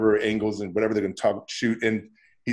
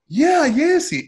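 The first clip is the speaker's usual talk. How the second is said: high, bright, louder exclaim; light up at the name; pleased, pitched-up reply; delighted recognition; 6 dB louder, much slower than usual. Retold or imitated.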